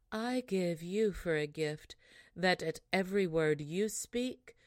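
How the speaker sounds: calm, unruffled. Acted. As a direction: pronounce the curse without anger. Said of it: "without putting herself in a passion".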